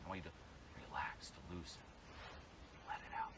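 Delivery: low, soft whisper; whispered, relaxed instruction; hushed coaxing. Shown as a demonstration. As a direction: ease them into letting go. Coach coaxing student to relax.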